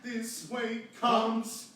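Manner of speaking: comes popped high and loud from the diaphragm; popped last note. Shown as a demonstration. Director demonstrating a punchy ending for the choir. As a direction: shout the final note out. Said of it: "you can really pop it".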